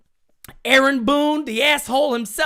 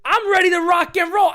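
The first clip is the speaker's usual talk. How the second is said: hype shout; 5 semitones higher, 4 dB louder than usual. Real, not acted. Pumped opening hype.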